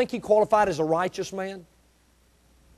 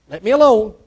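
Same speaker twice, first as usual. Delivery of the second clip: firm repeat; 5 dB louder than usual. Retold or imitated. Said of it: "God said".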